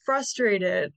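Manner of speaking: slow naming feeling. Shown as a demonstration.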